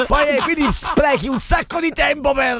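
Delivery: ordinary delivery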